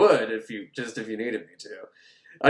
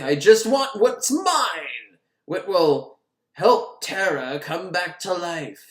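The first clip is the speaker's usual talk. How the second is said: slow, drawn-out otherworldly voice; eerie possessed; 2 semitones higher, slower than usual. Retold or imitated. Possessed heroine telling the Egyptologist what she wants, slow and eerie. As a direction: hold each word like she's entranced. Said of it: "She's like".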